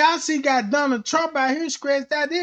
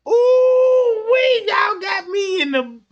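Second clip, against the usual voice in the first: laughing hard; 9 semitones higher, slower than usual. Real, not acted. Comedian cracking up at the crowd, laughing hard and high. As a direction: crack up and lose it. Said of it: "I'm finna stop".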